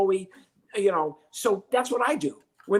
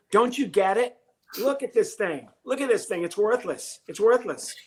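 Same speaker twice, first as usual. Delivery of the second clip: acted frustration; 4 semitones higher than usual. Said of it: "I'm trying to act".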